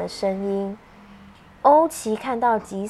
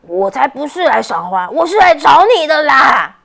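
mildly cross, slightly louder; a little annoyed; 10 dB louder than usual. Acted. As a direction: huff a bit, not truly angry. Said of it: "欧奇有一点点生气说".

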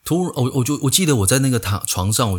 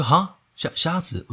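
confused surprise; 7 semitones higher, slower than usual. Retold or imitated. Confused by anesthetist's order.

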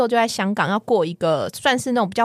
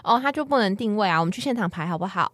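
coaxing gently; 2 semitones lower than usual. Shown as a demonstration. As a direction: gently coax the boyfriend, first time asking. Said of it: "我第一次都是那种撒娇，都是好好说".

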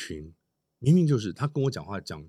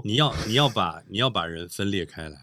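lower, softer word of heartfelt advice; earnest admonition; 3 semitones lower, 3 dB quieter than usual. Real, not acted. Panelist warns against splitting people by dialect, earnest admonition. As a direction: urge it gravely, keeping it low and soft. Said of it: "我这句话是语重心长的".

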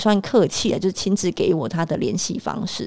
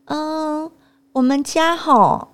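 snobby mother; 5 semitones higher than usual. Retold or imitated. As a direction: lord it over the other family. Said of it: "他跟我妈妈说".

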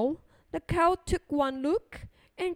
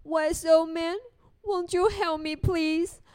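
lightly voiced old woman begging; pleading old lady; 3 semitones higher than usual. Old lady pleading with the wise old man. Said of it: "And she said".

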